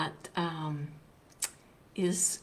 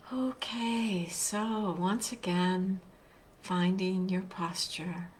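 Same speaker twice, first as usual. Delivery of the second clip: guided meditation; 4 dB quieter than usual. Real, not acted. Teacher leading online listeners into a seated practice, guided meditation. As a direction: guide them gently, leaving long silences between phrases.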